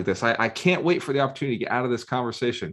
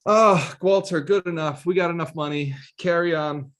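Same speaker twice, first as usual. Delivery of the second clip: mock complacent woman; 8 semitones higher than usual. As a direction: ham up a smug, satisfied partner who wants nothing more. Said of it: "She's not gonna just be like".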